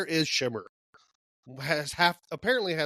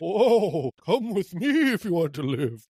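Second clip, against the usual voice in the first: Terminator-style mock; 3 semitones higher than usual. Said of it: "He's like".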